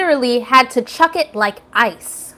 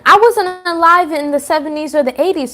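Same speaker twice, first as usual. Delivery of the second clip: exasperated repeat; 5 semitones higher than usual. Real, not acted. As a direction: say it like you've said it before.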